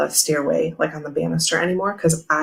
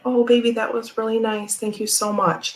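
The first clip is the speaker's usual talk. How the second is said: tender praise; 5 semitones higher than usual. Retold or imitated. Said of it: "I was like".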